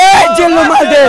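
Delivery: lighter second take of the gangster line; movie gangster line. Retold or imitated. Fan repeats the film dialogue a second time, lighter gangster voice. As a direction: say it again a bit closer to his own voice. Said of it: "সবাই একসাথে বলবেন".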